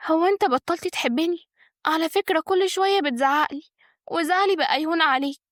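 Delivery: high, coaxing wife's voice; sweet smile. A narrator's reading. Wife holds her husband's hand, sweetly coaxing with a smile. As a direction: plead sweetly through a smile, pitched high. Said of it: "قالت بابتسامة جميلة".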